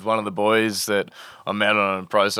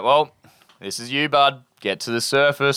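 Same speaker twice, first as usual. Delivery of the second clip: firm self-pep talk; 5 semitones higher than usual. Retold or imitated. Urges himself to swim up.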